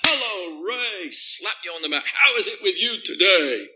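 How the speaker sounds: a hint of an overbearing hearty greeter; lightly voiced jolly glad-hander; mock booming cheerfulness; hearty back-slapper. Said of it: "big persona".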